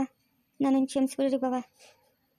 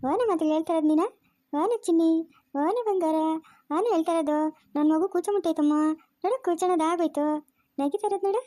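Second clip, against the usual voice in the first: put-on baby talk; 2 semitones higher than usual. Cooing over a baby.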